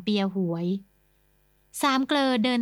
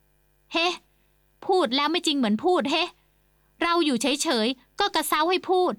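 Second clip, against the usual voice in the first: put-on higher, aggrieved young man; whiny complaint; 6 semitones higher than usual. A narrator's reading. Nephew complaining to friends after the punch, higher and whiny. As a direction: sulk to your friends.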